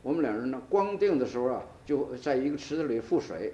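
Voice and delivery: retold homely local Chinese dialect; local Chinese colloquial. Old acquaintance recalls boyhood to his nephew, in local colloquial Chinese. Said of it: "local colloquial".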